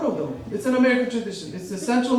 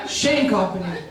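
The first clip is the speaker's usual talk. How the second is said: commercial voice; 4 semitones lower than usual. Retold or imitated. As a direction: read it like a smooth TV ad. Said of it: "This is for you".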